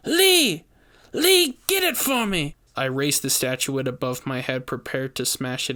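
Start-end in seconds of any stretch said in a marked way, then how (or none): 0.1-2.6 high, loud frantic order; shrieking witch. A narrator's reading. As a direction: scream for the brother to fetch it.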